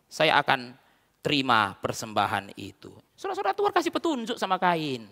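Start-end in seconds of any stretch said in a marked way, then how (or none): 0.1-2.9 low, slow divine pronouncement; solemn promise. Acted. God promising Cain to accept his offering, solemn and slow. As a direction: drop pitch and slow right down for the promise.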